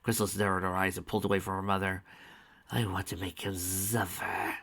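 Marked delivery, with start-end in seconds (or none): 2.7-4.6 slow, soft menacing; quiet seething threat; through gritted teeth. Acted. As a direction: grind the words out. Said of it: "she said through her teeth".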